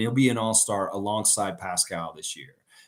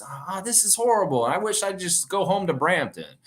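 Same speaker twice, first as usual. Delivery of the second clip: high-pitched mock upset complaint; 7 semitones higher than usual. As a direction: imitate an exasperated, upset passenger. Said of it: "was really upset".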